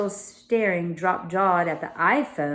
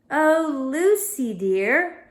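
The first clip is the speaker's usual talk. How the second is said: higher, louder pointed call; loudly; 7 semitones higher, 5 dB louder, much slower than usual. Acted. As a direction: call out meaningfully to her friend. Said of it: "said Emma loudly".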